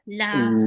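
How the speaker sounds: Lam with a long drawn-out a; stretched lam. Shown as a demonstration. Teacher showing a stretched Lam sound. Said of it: "Stretch it more".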